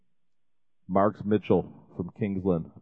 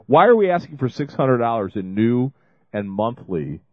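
emphatic question; 4 semitones higher, 6 dB louder than usual. Real, not acted. Explaining the pledge goal.

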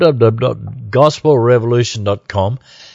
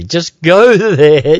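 laughing; 3 semitones higher, slower than usual. Real, not acted. Repeating the website plug.

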